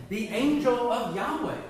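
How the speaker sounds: a delighted laugh at the big reveal. Real, not acted. Teacher revealing the title to the Bible class, laughing excitedly.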